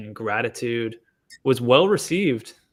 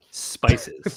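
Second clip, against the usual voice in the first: whispering; 7 semitones higher than usual. Pretend. Listing the flavors.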